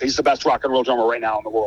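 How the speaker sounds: mock matter-of-fact statement. Acquaintance pronouncing on the best drummer, matter-of-fact. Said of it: "as a matter of fact".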